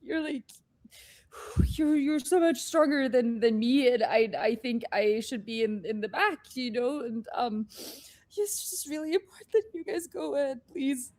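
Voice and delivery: stammering through tears; tearful. Acted. Inoki insisting the others go ahead, tearful stammer. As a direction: hold back crying while insisting. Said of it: "we got a crier".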